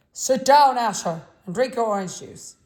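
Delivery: a father barely containing his fury; sharp command shaking with anger; tremulous with anger. A narrator's reading. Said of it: "in a voice tremulous with anger".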